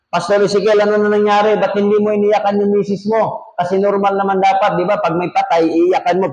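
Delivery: acted-out bewildered congregation member; puzzled questioners. Voices people questioning Ezekiel.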